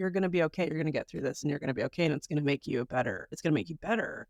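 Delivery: put-on low, softened comforting words to a teenager; gently insistent imagined pep talk; reassuring. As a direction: comfort a struggling kid, voice dropped. Consoling an imagined troubled teenager.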